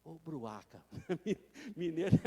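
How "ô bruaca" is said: mock scolding. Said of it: "Você fala".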